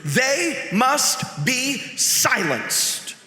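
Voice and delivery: mildly heated, emphatic reading, stretched on key words; understated fury, deliberate and forceful; furious letter reading. Acted. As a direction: read it as an urgent, indignant letter. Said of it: "furiously scribbling out".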